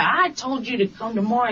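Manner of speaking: imitating a bossy customer laying down the law; mildly pushy, insistent retelling. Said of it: "talking to me like that".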